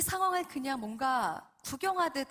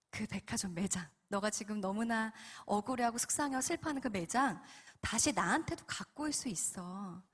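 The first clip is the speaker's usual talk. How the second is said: calm, measured loving voice; slightly lowered, patient divine voice; tender Holy Spirit; 2 semitones lower than usual. Retold or imitated. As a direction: reassure gently, then ask for trust. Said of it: "바로 이런 질문을 하십니다".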